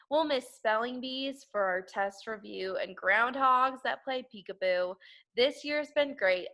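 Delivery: slow, sing-song poem reading; poem recital. Acted. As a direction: recite it like a children's rhyme.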